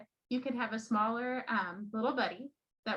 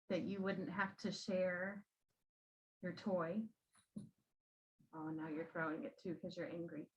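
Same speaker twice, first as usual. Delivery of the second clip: soothing teacher voice; 4 dB quieter than usual. Shown as a demonstration. Teacher soothing an angry child.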